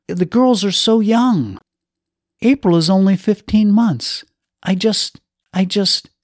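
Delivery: a husband losing his grip; distraught. Acted. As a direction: fall apart at the end of it. Husband breaking down over dying wife.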